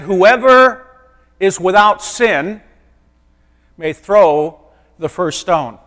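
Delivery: slow, loud, weighty declaration; solemn pronouncement. Pretend. Jesus pronouncing judgment to the accusers, slow and loud. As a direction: let each word land like a verdict. Jesus answers the stone-throwers.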